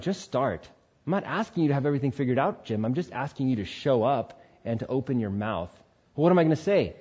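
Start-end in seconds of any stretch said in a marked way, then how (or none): 0.0-5.7 gentle God. Retold or imitated. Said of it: "the Lord's just like".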